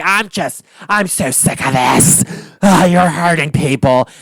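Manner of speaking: lightly voiced fed-up housewife; half-hearted mock of a weary complaint; imitating Meredith. Recapper retrying the crying housewife, mild mock exasperation. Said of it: "I can't do a good Meredith".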